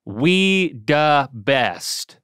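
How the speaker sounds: drawn-out celebratory shout; exuberant exclaim. Shown as a demonstration. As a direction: exclaim it for the world to hear. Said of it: "he just exclaims for the world to hear".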